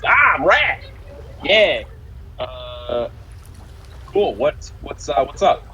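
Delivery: high-pitched, exclaimed greeting; hailing a visitor. Acted. Portmaster greeting the one who hailed him, exclaimed. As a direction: call out in recognition, pitch jumping up.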